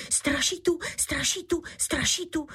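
high rising panicked calls; frightened cry. A narrator's reading. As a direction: cry out a ghost in terror. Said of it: "zvolal jiný loupežník".

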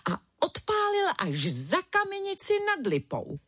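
ordinary delivery

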